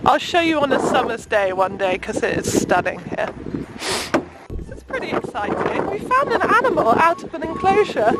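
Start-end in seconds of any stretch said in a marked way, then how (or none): 4.6-5.9 hushed whisper. Real, not acted. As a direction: whisper it so the animals stay calm. Quiet aside at the zoo.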